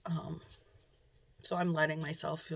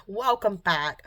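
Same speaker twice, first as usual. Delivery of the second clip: laughing greeting; 4 semitones higher, 11 dB louder, slower than usual. Real, not acted. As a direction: laugh then a slow, loud welcome back. Laughing restart of the vlog greeting.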